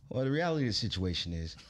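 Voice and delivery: imitating a calm, certain advisor; matter-of-fact. Manager answering a distraught artist, matter-of-fact. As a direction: lay it out evenly, as simple fact. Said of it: "he would say it so matter of fact".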